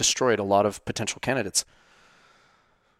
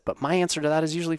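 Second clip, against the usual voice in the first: ordinary delivery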